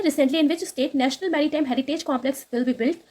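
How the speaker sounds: very slow, careful reading of English text; slow news read. Acted. Teacher reading the English news line to students, slow and careful. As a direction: read each word out slowly for students.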